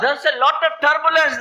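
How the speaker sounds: chuckling through the words; laughing. Real, not acted. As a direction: laugh while telling it. Laughing about the bumpy flight.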